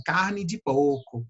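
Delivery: "carne de porco" with long vowels and no R; Northeastern accent. Shown as a demonstration. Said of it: "prolongam as vogais". (sotaque nordestino)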